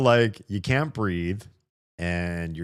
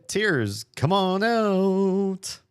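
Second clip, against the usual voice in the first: coaxing tears; 11 semitones higher, 4 dB louder, much slower than usual. Pretend.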